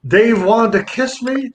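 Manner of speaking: high-pitched, worked-up retelling voice; mock hyperventilating. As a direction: imitate a friend barely getting words out through hysterics. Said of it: "He looked like he was hyperventilating".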